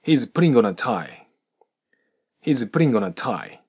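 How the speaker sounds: slow, the G of "putting" clearly said and linked into on; G fully pronounced. Shown as a demonstration. Teacher models slow full G linking. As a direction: sound "putting" with a real G joined to on. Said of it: "Gを飛ばさず、ちゃんと発音して".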